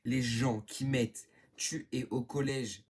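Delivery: slow, loud, emphatic call-out; exasperated call-out. Real, not acted. Vlogger to people commenting about her school, exasperated. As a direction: spell it out slowly and loudly to commenters.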